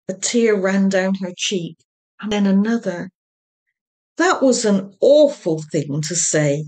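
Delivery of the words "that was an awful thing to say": reproachful. Acted. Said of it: "said Oti reproachfully".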